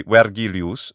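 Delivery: "Vergilius" as wer-GHEE-lee-oos. Shown as a demonstration. Quizmaster modelling classical Latin, "Vergilius" starting with a W sound. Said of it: "we pronounced the V as a W".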